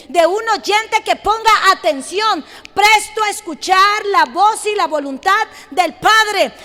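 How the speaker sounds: insistent, repetitive sermon cadence; energetic preacher hammering the refrain; impassioned preaching. Acted. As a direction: drive each phrase home to the congregation.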